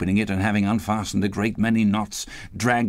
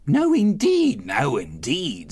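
eager agreement; 9 semitones higher, slower than usual. A narrator's reading. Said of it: "said Missus Dilber and the man together".

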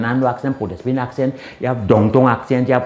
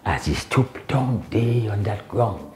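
spoken-word poem. Acted. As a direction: perform it like a steelband poem. Spoken-word poem about the pan.

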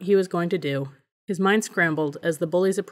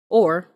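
"or" punched louder, then left hanging; pause for effect; 6 dB louder than usual. A narrator's reading. Cole lists choices to the bully, "or" loud before a dramatic pause. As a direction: hit "or" hard and stop for effect. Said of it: "Cole paused for effect".

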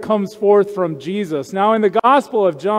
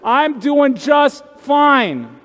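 mock proud denial; 3 semitones higher than usual. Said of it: "I want to say".

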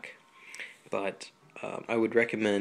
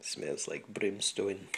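slow, hammed-up bad Scottish accent; 4 dB quieter, slower than usual. Flute teacher jokes about the sulfur smell, in a slow mock Scottish accent. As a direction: put on a deliberately terrible Scottish accent, slowly. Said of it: "My horrible Scottish accent".

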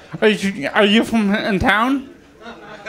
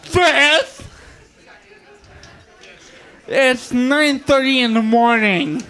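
fuming demand. Retold or imitated. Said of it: "So I just tell them".

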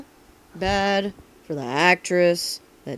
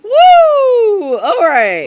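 loud whooping cheer; excited cheer; 12 dB louder, much slower than usual. Real, not acted. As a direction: whoop like a fan at a game. Cheering after reveal.

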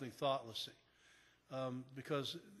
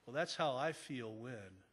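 gentle feeling statement; 4 semitones lower, 4 dB quieter than usual. Shown as a demonstration. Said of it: "Say like we said earlier".

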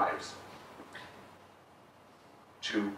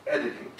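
editing lifted and stressed in the quote; 2 semitones higher than usual. Shown as a demonstration. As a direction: lean on the word editing. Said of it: "I'm emphasizing that word".

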